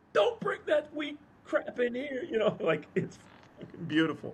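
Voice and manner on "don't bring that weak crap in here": very high, screaming rant. Describing Dustin yelling at people during a game, imitating Dustin screaming. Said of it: "He's screaming at people like".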